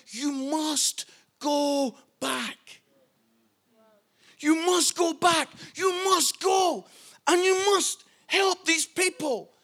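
slow, spaced command, then rising insistence; retold coast guard's urgent command; imitated stern order. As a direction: order someone back with deliberate force. Coast guard ordering captain back.

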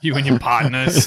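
slow, laughing through the words. Real, not acted. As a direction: chuckle it out, slowly. Joking among friends.

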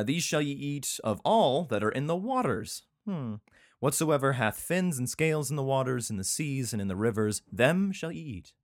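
declaimed Bible-reading voice; scripture reading. Acted. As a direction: proclaim the law, leaning on key words. Reads scripture aloud.

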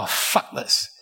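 muttered curse. Retold or imitated. Fed up and broke at midnight, whispered curse. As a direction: give up under your breath. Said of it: "I thought".

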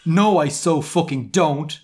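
drawn-out acted protest; mild shout. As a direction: deny it with emphatic, half-hearted yelling. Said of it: "I shouted".

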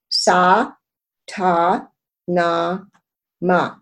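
Sa, Ta, na, ma slow, each syllable apart; sounding out words. Shown as a demonstration. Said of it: "we're going to break it into syllables".

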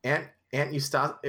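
measured storybook narration; story narration. A narrator's reading. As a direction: read it aloud like a novel. Reads the book aloud.

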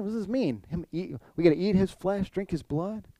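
the crowd, disgusted, asking what he means; grumbling Jews. Retold or imitated. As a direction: grumble it out, baffled and put off. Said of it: "They grumble and they complain".

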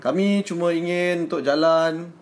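slow, stiff formal Malay; formal negotiator voice. Retold or imitated. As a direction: speak it slow and official. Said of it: "they would say lah".

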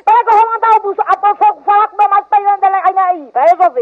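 loud, heated threat; angry threat. Real, not acted. Woman angrily threatens the prankster with her husband.

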